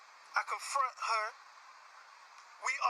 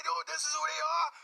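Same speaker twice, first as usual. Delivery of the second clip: loud, higher mocking of a judge; mock judgment; 6 semitones higher, 5 dB louder than usual. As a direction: call it out like a smug judge. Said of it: "look at a person's felonies and say".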